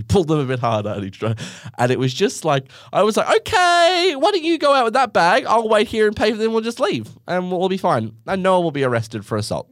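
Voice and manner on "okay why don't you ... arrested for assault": sing-song, pitched up high and louder, soothing the angry dad; sweetly steer dad away before he explodes; placating daughter. Retold or imitated. Calming her angry dad.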